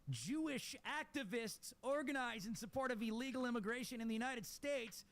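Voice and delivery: high nasal-free Yiddish caricature; Yiddish accent. Pretend. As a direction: read it in a hammed-up Yiddish accent. Reads headline in put-on voice.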